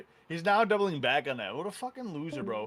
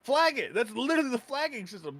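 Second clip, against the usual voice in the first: retold exasperated rant; 6 semitones higher than usual. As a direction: spell it out like he's an idiot. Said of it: "And then I'm just like".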